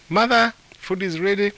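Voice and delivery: daughter's high-pitched call. A narrator's reading. Daughter calls her mother to lunch, calling out. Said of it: "the daughter called".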